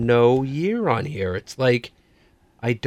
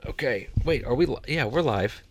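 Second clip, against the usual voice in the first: whispering; 6 dB quieter than usual. Real, not acted. Talking while mic muted.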